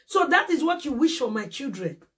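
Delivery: a real hurt shout breaking through; indignant outcry. Real, not acted. Mother defending children, cries out.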